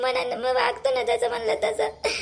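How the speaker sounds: half-sobbing protest with a tear in the voice; tearful. Acted. Wife protesting to husband through mild tears. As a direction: argue through tears that you did nothing wrong. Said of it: "म्हणता तुम्ही रडू नका".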